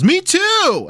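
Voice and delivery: squealed high and bright with delight; a thrilled high cry of recognition; excited cashier. Retold or imitated. Cashier discovering a fellow immigrant, excitedly squealing. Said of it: "she goes".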